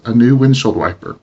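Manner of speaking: "new" somewhat stressed, WIND in "windshield" strongest; "a new windshield wiper" peaking on WIND, secondary stress on "new". Shown as a demonstration. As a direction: lean a little on "new", hit WIND hardest in "windshield". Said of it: "strongest stress still on the syllable wind".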